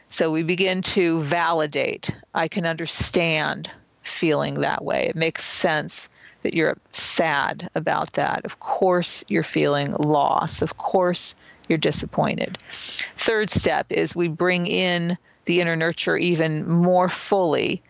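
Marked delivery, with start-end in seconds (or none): 2.3-12.6 nurturing voice. Shown as a demonstration. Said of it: "the nurturing voice".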